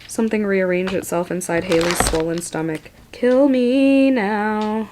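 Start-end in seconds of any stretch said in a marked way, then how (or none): 3.1-4.9 exasperated plea. Real, not acted. Exhausted by gross chapter.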